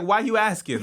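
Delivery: high, loud suspicious "why you asking"; defensive relative, high and loud; suspicious family member. Retold or imitated. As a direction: play it guarded and suspicious. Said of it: "this is like".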